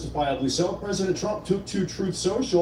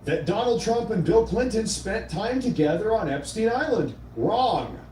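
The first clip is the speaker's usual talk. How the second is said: reading Trump's post; 3 semitones higher than usual. Retold or imitated. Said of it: "and I quote".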